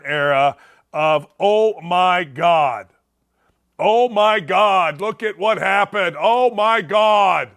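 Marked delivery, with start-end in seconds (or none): 1.4-7.5 mock-horrified "oh my God", drawn out; mock outrage. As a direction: wail it slowly in exaggerated alarm. Mocking overblown public outrage over safety.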